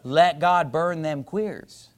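very slow, spaced words; slow punchline. Acted. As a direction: lean on each word slowly. Punchline drawn out slowly.

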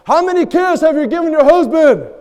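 high, loud heckling shout; retold heckler yell. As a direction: call it out from the crowd. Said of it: "somebody from the audience yells".

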